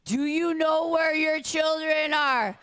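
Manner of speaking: slow, loud TV news announcer. Retold or imitated. Quoting the ten o'clock news to the crowd, slow announcer voice. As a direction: intone it like the late-night news. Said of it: "the news had to come on and ask".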